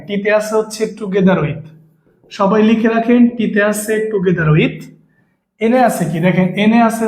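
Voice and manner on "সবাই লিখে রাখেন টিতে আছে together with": slowed right down so students can write each word; slow dictation. Shown as a demonstration. Teacher dictating a rule to students, slow and deliberate.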